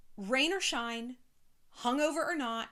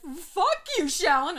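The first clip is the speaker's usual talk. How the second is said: higher, louder mocking yell; 7 semitones higher, 9 dB louder, slower than usual. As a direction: shout it like an angry hater. Haters quoted yelling.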